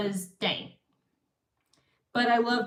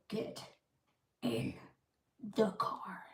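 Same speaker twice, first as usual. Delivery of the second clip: retold quiet command; hushed stern order; 11 dB quieter than usual. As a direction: drop to a near whisper, word by word. Retold order, repeated for effect.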